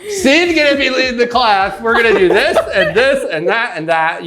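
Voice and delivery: gushing teacher. Retold or imitated. Keeps mocking the teacher.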